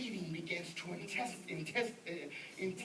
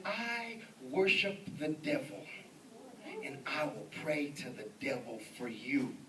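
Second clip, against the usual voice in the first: devil worshipper; 3 semitones lower than usual. Retold or imitated. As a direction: imitate an ominous devil worshipper, drawing it out. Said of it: "He said".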